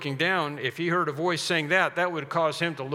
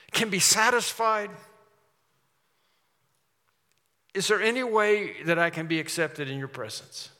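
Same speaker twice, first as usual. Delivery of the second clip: an earnest plea to God, pitched up and pressing; pleading sinner; 3 semitones higher, 3 dB louder than usual. Acted. A preacher voicing the tax collector pleading with God for mercy. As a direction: beg for mercy with rising urgency.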